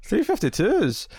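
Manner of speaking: high, slow, teasing goofy repeat; mock repeat. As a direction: stretch it out high and silly, poking fun. Callback to the running joke.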